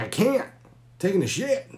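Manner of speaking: high, loud, insistent; loud protest. Retold or imitated. Drunk man refusing to open the door, loud. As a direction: yell back the excuse. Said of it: "It's like".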